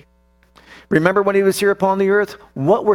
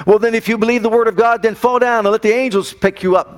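tempting devil; 6 semitones higher than usual. Acted. Preacher voices devil tempting Jesus.

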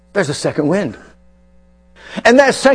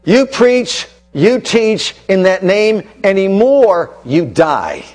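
grave threat; slower than usual. Acted. Acts out the real threat.

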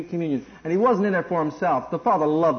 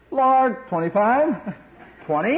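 put-on childlike bargaining; 4 semitones higher, slower than usual. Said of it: "acting like a little kid".

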